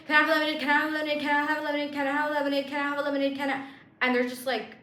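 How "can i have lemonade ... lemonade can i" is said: higher, rapid, pestering repeats; whiny nagging. Retold or imitated. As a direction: nag like an impatient kid.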